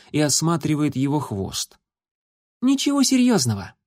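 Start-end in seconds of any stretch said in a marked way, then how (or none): 2.6-3.7 высокий женский голос кошки; мягко успокаивает раненого; успокаивающе. A narrator's reading. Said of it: "успокоила она слепого кота". (кошка успокаивает слепого кота)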